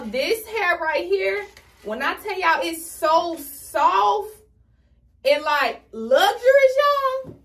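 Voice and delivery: high excited praise of the wig hair; gushing. Real, not acted. Gushing over soft wig hair.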